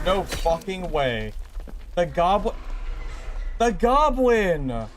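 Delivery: slow outraged shout of the goblin; angry yell. Real, not acted. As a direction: yell at the goblin that ruined the kill. Furious at goblin blocking play.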